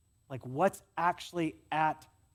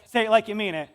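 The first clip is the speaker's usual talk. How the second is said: parent demanding; 4 semitones higher, 9 dB louder than usual. Retold or imitated. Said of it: "our parents said".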